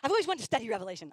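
put-on quick, giggly teen enthusiasm; giggling girl imitating keen teen; laughing eagerness. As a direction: gush it through a laugh.

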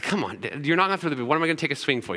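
imitating an annoyed kid's protest, rising on not; mock whiny complaint to dad. Boy complaining to his father about batting practice, mock annoyed whine. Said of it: "every time it annoyed me".

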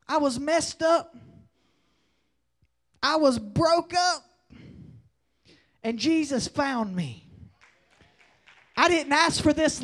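loud, punched preacher phrases with long pauses; forceful testimony preaching. Real, not acted. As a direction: preach your testimony in short, emphatic bursts.

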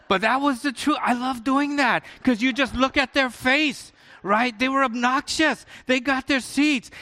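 high, gleeful laughing telling. Real, not acted. Pastor laughs recalling the rude couple's faces, gleeful. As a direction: chuckle at the payback.

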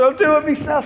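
imitating a fed-up patient, high and loud; loud, high-pitched retold defiance; defiant outburst. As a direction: act out a stubborn patient's outburst. Retold patient defiantly refusing help.

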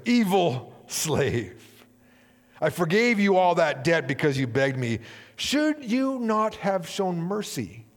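angry king. Acted. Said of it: "in anger".

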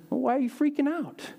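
high, lightly incredulous acted question; Jesus, puzzled. Jesus asks his panicked disciples, high puzzled imitation. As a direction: pitch it up as a baffled teacher asking his followers.

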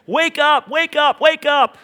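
three loud, high, falling calls; Jesus pleading with the church to wake up; urgent repeated shout. Acted. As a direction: hammer each call harder. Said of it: "Jesus urgently, urgently pleads".

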